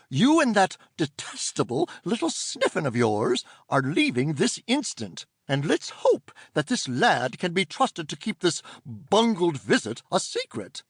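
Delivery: prim, scolding auntie; stern aunt voice. Acted. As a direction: order them out at once.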